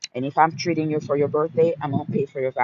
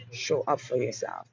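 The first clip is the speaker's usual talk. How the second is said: dropped to a soft, intimate close; softer repeat; 2 semitones lower, 6 dB quieter than usual. Shown as a demonstration. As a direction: say it quietly, almost to herself.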